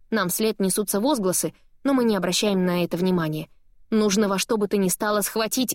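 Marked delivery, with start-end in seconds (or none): none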